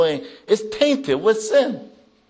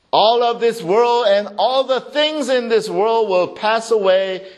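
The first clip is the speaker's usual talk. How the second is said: higher-pitched, forceful sermon delivery; emphatic preaching; 8 semitones higher, 5 dB louder than usual. Real, not acted. Preacher declaring this world will pass, emphatic.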